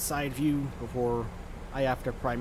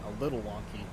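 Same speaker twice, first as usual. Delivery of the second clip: "A little wonky" said lower and drier, as if correcting himself; wry correction; 3 semitones lower, 3 dB quieter, faster than usual. Shown as a demonstration. Pilot admits to viewers, in a dry ironic tone, that the air traffic control is bad. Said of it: "Huh, what am I kidding?".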